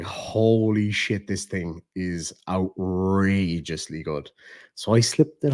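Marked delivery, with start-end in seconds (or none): 0.0-4.3 slow, drawn-out awe; understated, marvelling slowly; retold amazement. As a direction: stretch each word out in hushed wonder. Retells awe at mask arriving.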